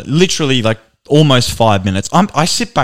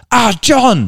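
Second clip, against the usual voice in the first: barber calling again; 11 semitones higher than usual. Retold or imitated. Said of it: "Thirty seconds of silence".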